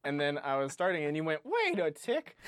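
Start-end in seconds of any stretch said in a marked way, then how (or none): 1.4-2.4 very high-pitched teasing mimicry; exaggerated high mock interjection; mocking co-host impression. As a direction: imitate your co-host in a squeaky put-on voice. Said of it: "I don't like the impression of me".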